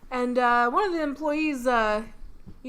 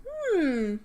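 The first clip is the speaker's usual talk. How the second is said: high questioning "hmm"; doubtful hum; 6 semitones higher than usual. Acted. Sally doubting the accent, acted.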